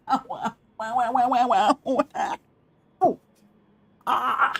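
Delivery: repeated high ows of pain; hissing in pain. Real, not acted. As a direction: wince through each ow, half laughing. Stubbed toe, repeated ows.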